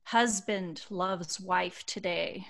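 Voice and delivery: slow, spaced-out headline reading; deliberate, reflective storytelling; heartfelt read-aloud. Acted. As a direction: read it slowly like a cherished headline. Reads post, headlines.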